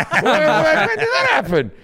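very high, hammed-up disbelief; mock outrage. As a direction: squawk in pretend shock. Pretends to react to predicted news.

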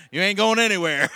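words pushed out through loud laughter; laughing. Real, not acted. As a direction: laugh hard while saying it. Laughing while telling diving story.

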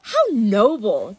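slow, yawning sarcasm; half-yawn through the words; bored god yawning at their bravery; stifling a yawn. Acted. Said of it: "stifling a yawn".

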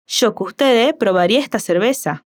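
Rioplatense accent with a "sh" yo and breathed S; a light Uruguayan accent, S's breathed. Shown as a demonstration. Teacher modelling the waiter's Uruguayan accent for the learner. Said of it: "intentando reproducir el acento de Juan".

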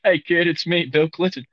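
lightly voiced politician impression; Bill Clinton. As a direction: greet a kid as the president, jokingly. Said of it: "John Mulaney's impression of Bill Clinton".

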